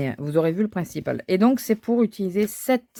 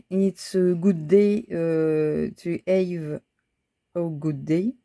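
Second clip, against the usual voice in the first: English read slowly with a French accent; much slower than usual. Real, not acted. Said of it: "excusez-moi mon accent". (accent français en anglais)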